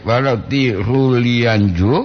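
ordinary talk, nothing marked

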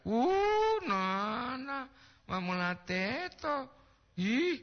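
high startled cry; surprised exclamation. Real, not acted. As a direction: blurt it out, startled. Seruan kaget mendengar nama. (seruan kaget bernada tinggi)

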